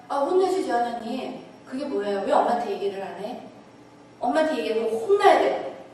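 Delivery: mock-outraged mother; indignant outburst. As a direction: burst out, scandalised on the mother's behalf. Indignant reply about the daughter.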